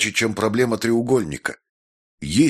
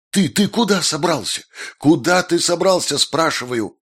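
much higher indignant yell; angry shouting; 9 semitones higher than usual. A narrator's reading. Maestro shouting at Jessica where she is going, higher angry yell. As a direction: demand an answer, shouting.

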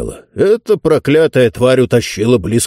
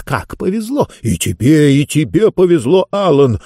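excited chatter; 4 semitones higher than usual. Acted. Bishops gush over lucky chance.

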